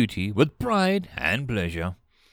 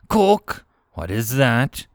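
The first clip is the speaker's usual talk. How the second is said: whisper yelling; 4 dB louder, slower than usual. A narrator's reading. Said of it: "She whispered fiercely".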